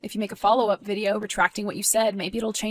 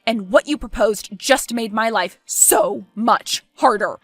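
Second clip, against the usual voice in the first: angry; 4 dB louder than usual. Acted. Miguel fights back at Thomas.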